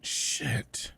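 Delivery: muttered swear under the breath; whispered curse. Acted. Boss realizing she must work the weekend, whispered swear. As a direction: curse quietly to herself.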